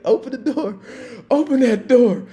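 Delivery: loud, high laughing shout; yelling order. Retold or imitated. Officer to drunk on the couch, loud laughing yell. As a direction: bellow it while cracking up.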